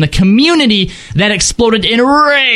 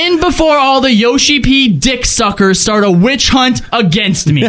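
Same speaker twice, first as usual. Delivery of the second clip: laughing; 6 semitones higher than usual. Real, not acted. Reading the email while laughing.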